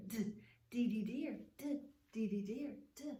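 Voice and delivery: repeated "d" with "dee dee deer"; d sound. Shown as a demonstration. Teacher drilling the d sound with kids. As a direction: tap out the d sound rhythmically. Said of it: "you have dee dee deer".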